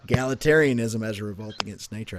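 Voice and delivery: quick careful retake. Shown as a demonstration. Quick corrected retake. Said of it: "I was trying to say agrarianism".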